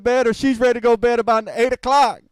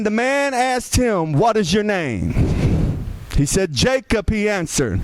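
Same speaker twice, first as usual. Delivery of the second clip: scripture reading. Acted. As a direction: read the passage with weight. Reads scripture aloud.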